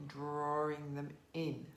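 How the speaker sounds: drawing them in, eased out quietly and slowly. Shown as a demonstration. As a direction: let the repeat fade gently.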